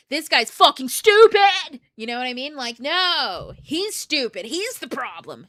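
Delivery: yelling out the blame, drawn-out key words; irritated outburst. Acted. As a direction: explode in hammed-up indignation. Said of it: "I'd have been fucking irritated".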